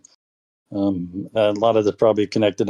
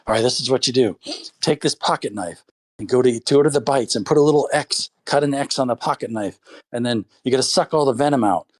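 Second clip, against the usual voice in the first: grandpa voice; 4 semitones higher than usual. Retold or imitated. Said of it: "He's like".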